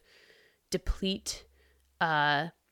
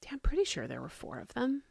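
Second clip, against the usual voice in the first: whispering; 7 semitones higher, 5 dB quieter, faster than usual. Real, not acted. Whispered hushed claim.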